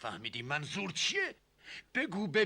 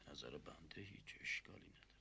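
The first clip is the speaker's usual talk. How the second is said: soft hushed answer, barely voiced; whispered reply; 9 semitones lower, 21 dB quieter, faster than usual. Prince whispers his agreement back to the uncle, hushed.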